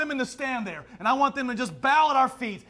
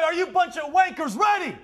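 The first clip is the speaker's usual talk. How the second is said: taunting shout; 4 semitones higher than usual. Acted. Taunting the Australian crowd.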